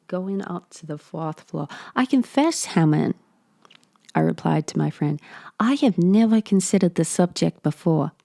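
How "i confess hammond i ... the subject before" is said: a fresh take on the narrator, pitched up and louder; the narrator redone with more push; restarted narrator voice. Acted. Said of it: "I'm gonna start this character over".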